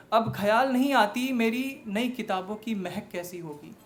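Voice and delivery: reflective verse that lifts then settles; earnest spoken-word poem; poetry recital. Acted.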